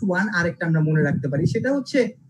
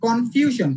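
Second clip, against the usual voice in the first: কনফিউশন with ফিউ punched; stress before shon; 2 semitones higher, much slower than usual. Shown as a demonstration. Teacher repeating the example, কনফিউশন stressed on ফিউ. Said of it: "শন এর আগের যে সিলেবলটা".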